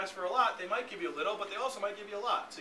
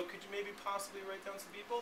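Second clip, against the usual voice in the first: timid asker; 2 semitones higher, 8 dB quieter than usual. Retold or imitated. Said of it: "If you go".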